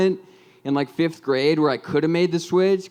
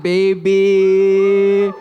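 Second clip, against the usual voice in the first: hype shout; 4 semitones higher, 7 dB louder than usual. Acted. Hyping his own birthday.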